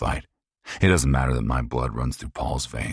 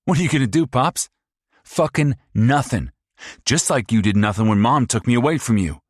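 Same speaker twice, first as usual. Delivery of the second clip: high, loud, fast mocking sneer; sneering abusive son; 10 semitones higher, 6 dB louder than usual. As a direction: taunt her like a cruel bully. Paul taunts father.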